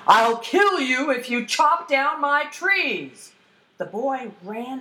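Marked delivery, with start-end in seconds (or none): 0.1-3.3 high, slow, threatening troll yell. Acted. Troll threatens a boy chopping his trees, yelling. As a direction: draw out the threat as an angry troll. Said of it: "came running out of the forest and yelled".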